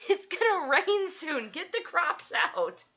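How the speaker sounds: high, loud, drawn-out farm holler; mock morph call. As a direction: call slowly across the fields, hammed-up.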